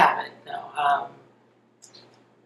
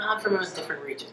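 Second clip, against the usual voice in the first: whispered aside; 3 semitones higher, 7 dB quieter, faster than usual. Retold or imitated. Retelling own reply about name.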